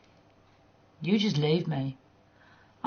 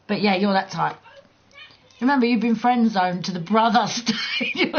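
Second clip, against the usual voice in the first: ordinary talk, nothing marked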